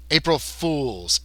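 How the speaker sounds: slow, understated correction; correcting. Acted. Lizard man correcting the gray, slow understated correction. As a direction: stretch FOOLS slowly, no shouting. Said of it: "as if he was correcting the gray".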